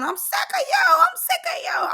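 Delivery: very high squeal of her line; shrill mock yell. The speaker yelling her favorite line at Summer, very high mock squeal. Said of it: "Ivory said her favorite line".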